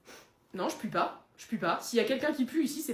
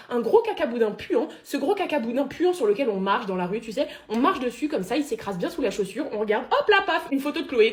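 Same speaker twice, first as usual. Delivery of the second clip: hammed-up angry rant, louder on the insults; tirade haineuse; 3 dB louder than usual. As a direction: rail at a hated coworker with theatrical contempt. Tirade de haine contre Chloé. (tirade haineuse et théâtrale)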